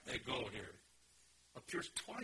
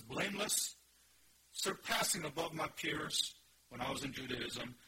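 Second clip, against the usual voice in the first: raised, louder, forceful self-testimony; emphatic Paul; 4 semitones higher, 5 dB louder than usual. Acted. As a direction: declare credentials with insistent force. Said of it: "Paul personally, emphatically say".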